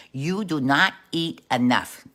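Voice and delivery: slow, mock-Italian God; lightly put-on Italian accent, slowly. God advises the scrawny wolf in a slow Italian accent. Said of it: "I think God is Italian".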